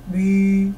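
lightly voiced ogre spelling out "Bicicleta" by syllables: bi-ci-cle-ta; ogre's syllable talk. Shown as a demonstration. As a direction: ogro falando "Bicicleta" em sílabas separadas. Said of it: "o ogrozinho tinha uma maneira muito estranha de falar".

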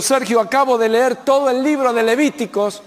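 a hint of a puzzled businessman; businessman friend's voice. Businessman friend tells the preacher Levíticos made no sense, puzzled. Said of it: "me dijo".

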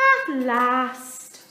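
relieved sigh. A narrator's reading. Dudley finally alone, sighing with relief. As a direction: breathe it out with relief. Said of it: "sighed Dudley".

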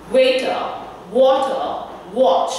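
"waiter", "water", "watch" begun with rounded lips. Shown as a demonstration. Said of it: "I will always round my lips and then say the word".

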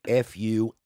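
each letter spelled out slowly and loudly; slow spelling. Retold or imitated. Ex-mayor spells his surname for the lodger, slow and loud.

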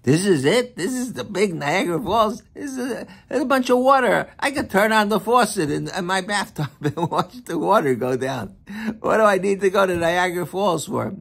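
mock a bored sightseer who finds the falls dull; scoffing tourist. Man at the falls scoffing to the rabbi, mock disdain. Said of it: "He says".

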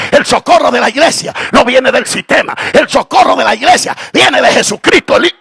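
shouted preaching climax; fiery preacher shouting; full-force preaching. Acted. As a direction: preach it out loud to the crowd.

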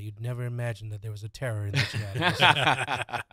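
movie trailer voiceover. Pretend. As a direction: epic announcer voice for a horror trailer. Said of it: "That's where you get to do a voiceover".

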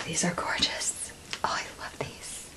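breathless whisper of delight; awed whisper. Real, not acted. Opening a friend's package, awed whisper. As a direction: whisper it, overcome by the gift.

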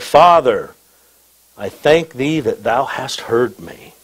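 measured, declaimed Bible verse; scripture reading. Acted. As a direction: read it out formally, easing off at the end. Reads scripture to congregation.

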